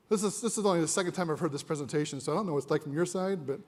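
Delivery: slightly out of breath; short of breath from talking; a little winded. Real, not acted. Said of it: "from my side, I'm a little winded".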